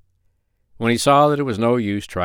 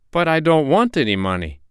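raised-pitch mild protest; protesting doctor; 7 semitones higher than usual. A narrator's reading. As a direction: object mildly, pitched up.

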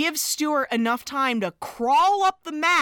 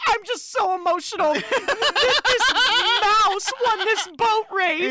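laughing; 6 semitones higher than usual. Retold or imitated. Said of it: "And I'm like".

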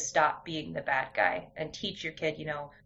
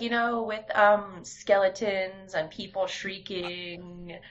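put-on higher, slow little girl explaining; higher, slow child voice, quoting her daughter; 4 semitones higher, 3 dB louder, slower than usual. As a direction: play the earnest young daughter. Mom voicing her young daughter.

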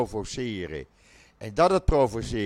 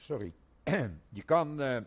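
coughing, throat dry and rough; 3 semitones higher, 5 dB quieter than usual. Real, not acted. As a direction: clear a dry, scratchy throat. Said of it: "even een slokje water".

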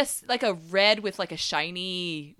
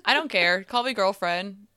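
hoarse. Real, not acted. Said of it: "you are hoarse".

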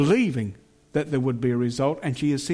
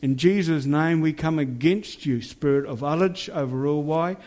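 fierce commanding prayer. Acted. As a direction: rebuke the spirits with authority. Binding spirits over the town.

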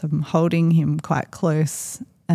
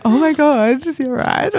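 alarmed; 9 semitones higher, 4 dB louder than usual. Retold or imitated. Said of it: "and I was like".

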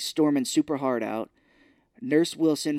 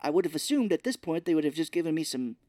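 higher-pitched mock Dorothy; voiced Dorothy retort; 4 semitones higher than usual. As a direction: play Dorothy's put-upon explanation, pitched up. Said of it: "Dorothy's like".

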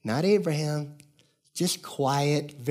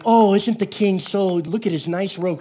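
mock admiration, higher and louder; fawning crowd; 5 semitones higher, 3 dB louder than usual. Crowd clapping for the naked king, put-on admiring gush. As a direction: gush slowly like an onlooker playing along.

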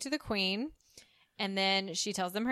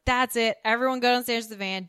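louder, hurried command; urgent order; 3 semitones higher, 6 dB louder than usual. Retold or imitated. Man ordering the women to the van, urgent. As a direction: round everyone up fast.

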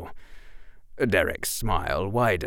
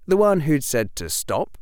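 plain reading voice

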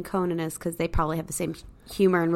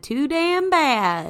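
emphatic retort; 8 semitones higher, 5 dB louder, much slower than usual. Retold or imitated. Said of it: "N B C should have said".

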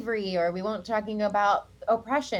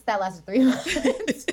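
laughing; 5 semitones higher, 4 dB louder, much slower than usual. Real, not acted. Laughing about short-lived show.

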